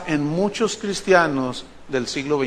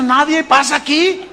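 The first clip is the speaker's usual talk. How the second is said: high, raised voice refusing entry; stern usher; 6 semitones higher than usual. Retold or imitated. Usher stops the preacher at the door, high and firm. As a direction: imitate a doorman firmly blocking the way.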